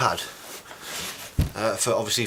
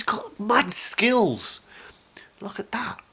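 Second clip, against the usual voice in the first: high playful whisper; 10 semitones higher, much slower than usual. Real, not acted. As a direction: whisper it like a secret. Playful aside about mum's hat.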